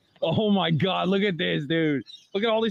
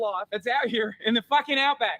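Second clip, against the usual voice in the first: put-on lightly done Australian accent, higher, wildlife-host announcing; Crocodile Hunter Australian accent; 5 semitones higher than usual. Vlogger introducing the reptile park to camera, mild Australian accent. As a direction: play a hammed-up Aussie wildlife presenter introducing the park. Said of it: "Not an awful accent".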